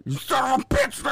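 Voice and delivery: high loud mock outrage; high furious girlfriend voice; outraged girlfriend. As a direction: shriek it as the trapped girlfriend. Acted wife trapped under blanket.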